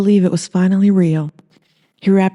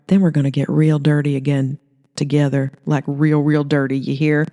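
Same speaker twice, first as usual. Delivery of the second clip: sultry Holly. Acted. Holly being seductive.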